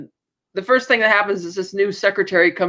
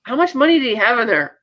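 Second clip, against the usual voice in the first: laughing quote; 4 semitones higher than usual. Retold or imitated. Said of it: "she's like".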